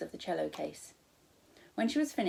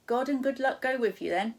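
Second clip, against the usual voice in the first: high, louder friendly stall lady; cheery shop woman; 6 semitones higher, 6 dB louder than usual. Acted. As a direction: sing out the wares like a cheery server. Woman blessing Sophie.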